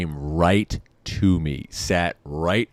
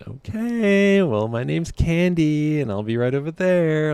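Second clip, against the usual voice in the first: put-on high, slow, drawn-out girl voice; imitated stripper; 8 semitones higher than usual. Stripper leaving her name after being turned down, high drawn-out voice. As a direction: stretch it out in a high sing-song imitation.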